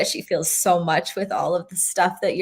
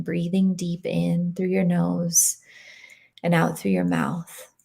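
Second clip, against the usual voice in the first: guided meditation. Acted. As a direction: ease them gently out of the meditation.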